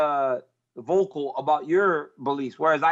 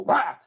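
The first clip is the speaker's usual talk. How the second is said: imitated "wah!" to startle someone; sudden pop-out scare noise, pitched up; playful mock boo; jump-scare shout; 4 semitones higher than usual. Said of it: "she walks out, and I just go".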